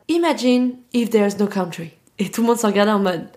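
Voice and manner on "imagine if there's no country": prof qui insiste. Retold or imitated. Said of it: "il était en mode".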